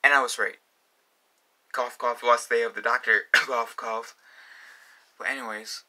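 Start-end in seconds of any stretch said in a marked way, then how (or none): 1.7-4.1 pointed fake coughing; fake cough hint. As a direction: slip the hint in between coughs. Fake cough hinting at friend.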